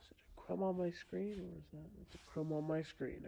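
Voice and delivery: hushed under-breath whisper. Real, not acted. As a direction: whisper it to yourself, puzzled. Peering at crumb on screen.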